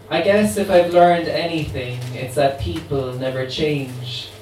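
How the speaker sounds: a light hint of a New Orleans accent. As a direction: voice the immortal voodoo queen with a faint New Orleans accent. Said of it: "try and do it in her accent".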